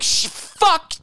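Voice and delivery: high, loud flustered mock boyfriend. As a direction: splutter like a frantic jilted guy. Boyfriend flustered at being left behind.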